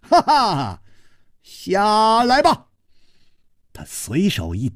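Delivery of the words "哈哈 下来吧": high, laughing taunt; playful high laughing rebuke; laughing scold. A narrator's reading. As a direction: laugh as you order him down. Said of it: "他笑斥道".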